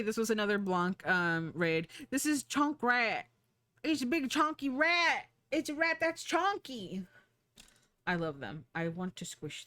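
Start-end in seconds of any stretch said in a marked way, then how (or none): 2.1-7.0 cutesy gushing. Real, not acted. Streamer showing viewers a chunky rat, cutesy gushing. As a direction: gush over it in a high coo.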